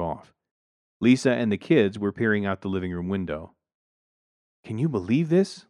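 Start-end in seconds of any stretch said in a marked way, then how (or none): 4.6-5.6 higher-pitched incredulous wife; wife's exclamation. A narrator's reading. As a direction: exclaim it in mild disbelief. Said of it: "Lisa exclaimed".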